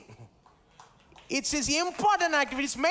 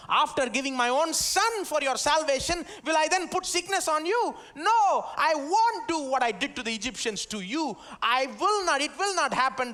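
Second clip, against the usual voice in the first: rising, proclaiming promise; 1 God's promise; 4 semitones higher than usual. Acted. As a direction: build to a ringing no. Preacher voicing God's promise.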